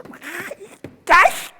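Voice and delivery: 높고 크게 터뜨리는 욕설 흉내; 화가 치밀어 내뱉어; angry outburst. Retold or imitated. (높고 크게 터뜨리는 화난 욕설 흉내)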